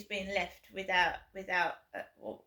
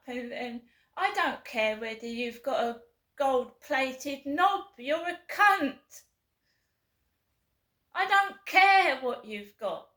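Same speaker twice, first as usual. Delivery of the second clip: loud furious swearing, slowing on the insult; 3 semitones higher, 4 dB louder than usual. Real, not acted. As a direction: yell the insult with full contempt. Angry rant at mystery pranksters.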